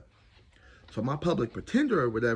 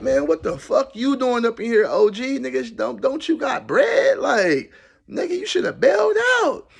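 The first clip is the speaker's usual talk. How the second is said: loud incredulous; 10 semitones higher, 6 dB louder than usual. Retold or imitated. Incredulous at celebrity in jail.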